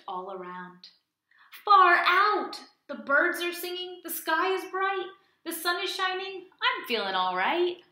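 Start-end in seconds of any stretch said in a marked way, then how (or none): 1.6-7.8 loud, high joyful cheer; happy chant, storytime style; excited turtle. Acted. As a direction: call it out with delight. Turtle delighted.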